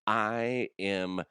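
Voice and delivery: slow, hammed-up British accent. Podcaster testing a character called Carlos, slow British accent. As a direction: introduce yourself in a drawn-out British voice. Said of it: "I was doing a British accent".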